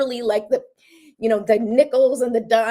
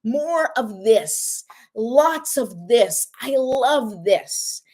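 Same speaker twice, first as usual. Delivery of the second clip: savoring request; 4 semitones higher, much slower than usual. Pretend. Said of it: "send that message out to the universe".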